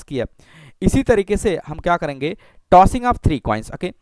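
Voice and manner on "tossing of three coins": very slow, drawn out; slow dictation. Shown as a demonstration. Teacher dictating the experiment to students, slowly. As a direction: say it slowly as you write. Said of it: "धीरे धीरे मैं पढ़ रहा हूँ".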